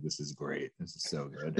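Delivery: low, hushed muttered aside; soft, low reaction to oneself; quiet aside. Retold or imitated. Quotes own private glee at choking.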